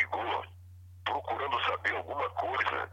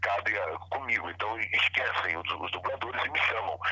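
usual speaking voice

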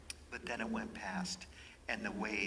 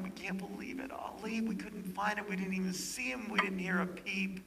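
crying relief; 9 semitones higher than usual. Retold or imitated. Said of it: "they're just crying".

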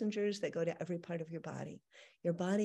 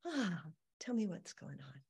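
soft, quiet caring ask; gentle soothing; 2 semitones lower, 5 dB quieter than usual. Shown as a demonstration. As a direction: breathe and ask softly. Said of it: "you say".

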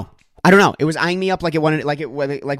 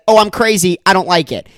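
self-quote; 5 semitones higher, 7 dB louder than usual. Retold or imitated. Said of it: "I said".

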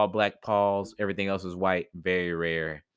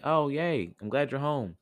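mildly delighted greeting, pitched higher; cheery welcome; 6 semitones higher than usual. Acted. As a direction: give a little happy welcome home. Mouse greets returning cat.

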